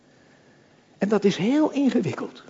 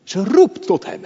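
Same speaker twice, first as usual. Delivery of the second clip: calling with force; 5 semitones higher, 5 dB louder than usual. Shown as a demonstration. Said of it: "ze roept het met kracht".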